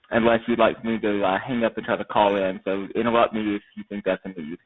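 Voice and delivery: muffled, mouth right against the mic. Real, not acted. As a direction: talk muffled into a close headset. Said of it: "they think your mouth is too close to the headset".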